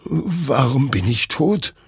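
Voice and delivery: high, slow, stunned question; bewildered dread. A narrator's reading. The soldier sees his own corpse and asks, stunned and high.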